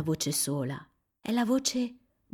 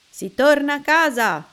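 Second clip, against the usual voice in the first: louder, higher call home; adults shouting; 7 semitones higher, 9 dB louder than usual. A narrator's reading. Parents calling children home from the rain, loud. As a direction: call the kids home firmly.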